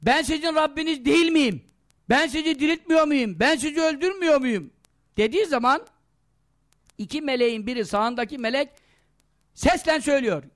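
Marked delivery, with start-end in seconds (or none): 0.0-4.7 lightly voiced false god haranguing a crowd; a hint of a demagogue's speech; orating Dajjal. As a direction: put rhetorical questions to a crowd. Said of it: "Deccal millete nutuk atarken".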